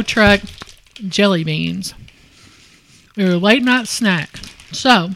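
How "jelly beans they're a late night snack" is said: talking with mouth full; chewing chocolate while talking. Real, not acted. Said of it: "I don't wanna talk with my mouth full".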